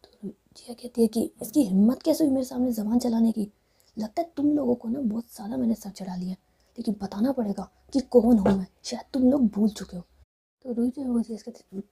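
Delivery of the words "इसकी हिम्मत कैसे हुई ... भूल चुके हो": loud, indignant telling-off; acted angry reprimand; angry scolding. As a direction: put them in their place, voice raised. Angry Jiya scolds in the story.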